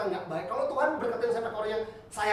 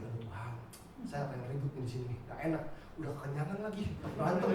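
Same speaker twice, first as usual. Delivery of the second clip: softly muttered inner worry, lower; worried inner prayer; 5 semitones lower, 6 dB quieter than usual. Retold or imitated. Preacher silently fretting to God about a coming fight, muttered low. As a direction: think it to yourself, low and anxious. Inner dread at possible quarrel.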